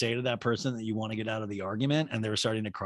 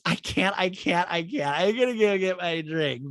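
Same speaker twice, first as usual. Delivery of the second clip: higher-pitched mock fluster; Kyle; 7 semitones higher than usual. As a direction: lightly parody someone bailing out. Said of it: "And Kyle goes".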